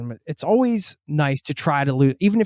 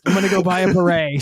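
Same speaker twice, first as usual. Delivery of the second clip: mock French; 4 semitones higher, 4 dB louder than usual. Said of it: "Sorry, I just did that".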